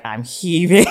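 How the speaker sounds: high, loud mock panic, amused; retold anxiety attack. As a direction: act out the overwhelm, half laughing. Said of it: "I have a full-on anxiety attack".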